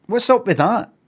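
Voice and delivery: exasperated jibe. Shown as a demonstration. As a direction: needle him, loud and high, fed up. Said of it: "you know, change the record".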